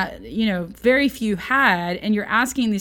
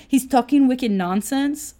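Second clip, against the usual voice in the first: a light mock New England accent, a bit slower; 4 semitones higher, slower than usual. Teacher reading John's verse, lightly playing a New England accent. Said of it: "Like, that is so New Englander".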